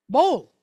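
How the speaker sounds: "Bowl" loud, like what you eat out of; sounded-out letters. Shown as a demonstration. Teacher answering how the example letters are pronounced, sounded out. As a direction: sound out "Bowl" loudly with a long O. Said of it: "how would I pronounce that".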